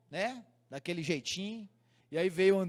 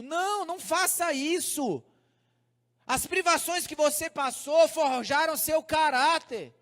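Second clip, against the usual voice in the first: earnest, higher-pitched sermon delivery; preaching; 8 semitones higher, 4 dB louder than usual. Real, not acted. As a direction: drive the lesson home to the congregation. Preaches the lesson.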